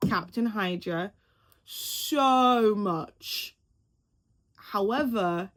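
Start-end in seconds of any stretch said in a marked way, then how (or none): 0.1-3.6 eager longing. Real, not acted. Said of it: "I would love to see".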